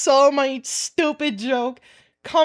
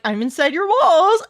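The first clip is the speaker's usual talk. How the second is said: creepy joking; 4 semitones higher, 5 dB louder than usual. Retold or imitated. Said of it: "where I jokingly am like".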